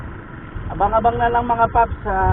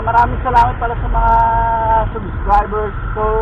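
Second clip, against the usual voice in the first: loud vlog outro; 4 dB louder than usual. Real, not acted.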